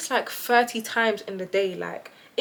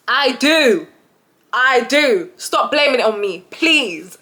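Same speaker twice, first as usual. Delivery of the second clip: half-laughing mock whine; whiny protest; 3 semitones higher, 7 dB louder, slower than usual. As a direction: plead it like a wronged kid.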